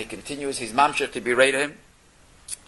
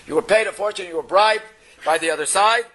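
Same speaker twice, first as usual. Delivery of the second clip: angry accusation; 5 semitones higher, 3 dB louder than usual. Retold or imitated. Butcher accuses the rabbi angrily.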